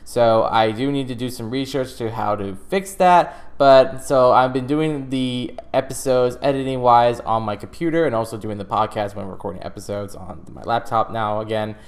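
muffled, boxy mic sound; inside a fishbowl. Real, not acted. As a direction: voice trapped in a fishbowl. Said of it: "my voice for some reason sounds like I'm in a fishbowl".

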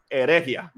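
"herejía" with the stress moved off the I, he-RE-jia; misread without accent. Shown as a demonstration. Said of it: "Yo no entiendo los acentos".

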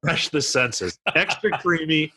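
slow, drawn-out beer ad copy; hammed-up ad read. Host reads the beer blurb to co-hosts, hammed-up ad read. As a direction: sell each phrase with a pause.

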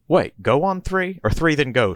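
high, loud, slowed confusion; confused high question. Acted. Little Rock asks Tallahassee about the countdown, high and flustered. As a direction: puzzle it out in a flustered squeak. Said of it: "she asks".

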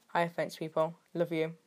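playfully creepy declaration of love; creepy affection. Pretend. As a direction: greet them with a hint of creepy fondness. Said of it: "Sounds creepy".

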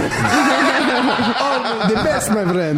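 high, hammed-up Eastern European accent; Polish or Ukrainian accent. Begging driver boasting of radio, high mock Eastern European accent. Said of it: "Polish or Ukrainian accent".

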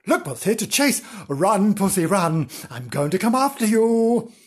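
lively dog taunt; teasing dog. Acted. Dog about to chase the kitten, taunting. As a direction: call it out eagerly as the chasing dog.

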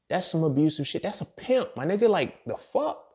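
indignant outburst. Real, not acted. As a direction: rant it out in shocked outrage. Outraged at the Esther story.

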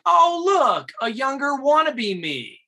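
high, loud, sneering imitation of the cocky actor; cocky mock. Cocky actor mocking the young look-alike, high, loud sneer. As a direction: lift the voice and sneer down at the kid. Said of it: "He's like".

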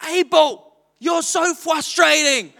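high, slow mock scolding with a laugh; a child parroting her father; little girl copying dad. Daughter Dawn copying her father's scolding, mock-exasperated. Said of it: "And Dawn goes".

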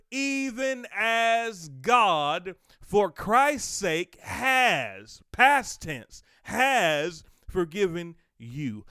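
loud, slowing, rising preached verse; preaching scripture. Acted. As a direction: stretch each word from the pulpit.

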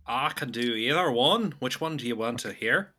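lightly Irish accent. Shown as a demonstration. Friend offering accents on request, Irish accent. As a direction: show off an Irish lilt. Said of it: "that's gonna be the Irish accent".

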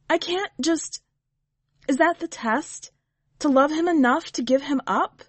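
high, halting distress; distressed protest. A narrator's reading. Leah questioning the witch about the test, distressed.

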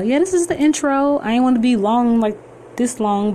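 high, bubbly excitement; can't hold back the enthusiasm; excited. Real, not acted. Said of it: "I got excited all over again".

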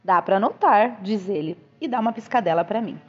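lively, expressive audiobook reading; story narration. A narrator's reading. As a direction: read the novel aloud with animated phrasing. Reads a novel aloud.

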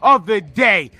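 shouted rant. Real, not acted. Ranting about the wrestling booking.

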